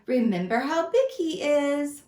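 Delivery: high, caring warning; a wife warning her husband; worried mouse wife. Acted. Mouse's wife warns him, high and worried. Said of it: "cried the mouse's wife".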